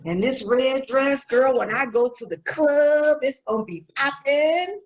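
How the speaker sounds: lightly voiced sassy young woman chatting on the phone; a hint of a brash girl bragging to her friend, then dodging the church caller; Charletha skit voice.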